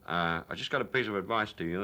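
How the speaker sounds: John Wayne. Retold or imitated. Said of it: "it was John Wayne".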